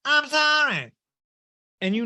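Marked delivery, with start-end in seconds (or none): 0.0-0.9 mock shout. Mocking a celebrity apology.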